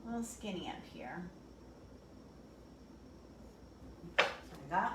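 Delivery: talking around a brush in mouth. Real, not acted. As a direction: paintbrush held between teeth. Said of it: "I have a brush in my mouth".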